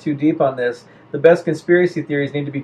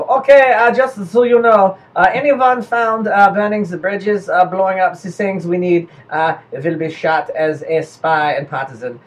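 slow, deliberate mock German accent; 2 semitones higher than usual. German officer politely warning the Belgians, slow German accent.

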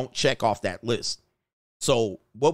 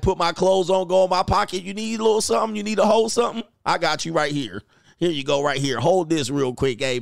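goodbye at the door. Retold or imitated.

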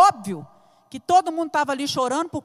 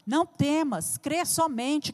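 soft refrain; 5 dB quieter than usual. Acted. Preacher repeats the promise to the church, softly. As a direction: say "crê somente" softly, like a comfort. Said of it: "repeated refrain, quiet take".

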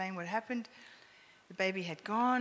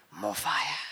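little roar; 7 semitones lower, 4 dB louder than usual. Retold or imitated. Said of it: "It was a roar".

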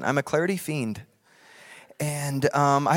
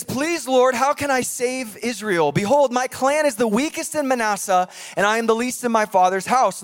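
higher, pleading voice of a humble man; pleading Gideon; 5 semitones higher than usual. Acted. Preacher voicing Gideon pleading with the Lord, higher and pleading. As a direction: beg the Lord, feeling small.

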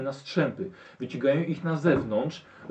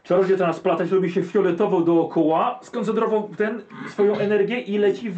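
raised, building spell description; higher-pitched, charged scene telling; dramatic game master narration; 5 semitones higher, 3 dB louder than usual. A narrator's reading. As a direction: narrate the magic with rising excitement.

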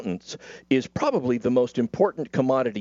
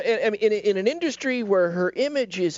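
mock sorrow; 7 semitones higher than usual. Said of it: "Cal's crying".

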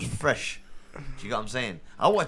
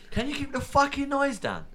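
angry neighbour yell; 14 semitones higher than usual. Retold or imitated. Neighbours yelling from their houses.

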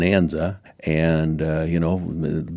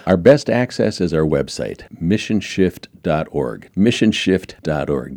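radio announcer voice. Pretend. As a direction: announce the web address like a DJ. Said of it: "Did I sound like a radio guy there?".

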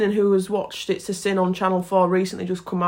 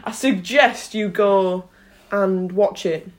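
teacher voice; slower than usual. Shown as a demonstration. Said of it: "it's my teacher voice".

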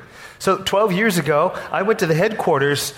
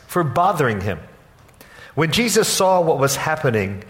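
steady, measured Bible reading to the congregation; scripture reading. Acted. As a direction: read the passage as solemn scripture. Pastor reads scripture aloud.

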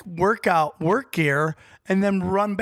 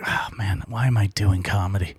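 much lower, weary despair; despairing comic; 8 semitones lower than usual. Retold or imitated. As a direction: groan it like a beaten comic. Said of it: "I've seen sets where it's like".

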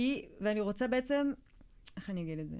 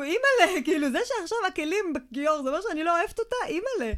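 put-on scared child's thoughts; 6 semitones higher, 4 dB louder than usual. Child's frightened inner voice.

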